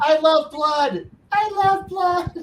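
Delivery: high, slow gleeful cry of loving blood; bloodthirsty glee. Pretend. Player gushing to the table in a high gleeful voice. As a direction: relish it like a giddy maniac.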